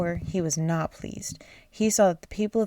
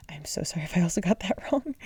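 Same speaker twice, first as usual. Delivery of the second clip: whispered aside; faster than usual. Real, not acted. Reader whispering an apology mid-story, whispered. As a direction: whisper the apology under your breath.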